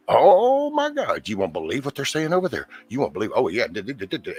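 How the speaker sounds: high, loud, breathless gossip gasp; gossipy excitement. Retold or imitated. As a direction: gush like a busybody spilling news. Imitating excited gossiping viewers.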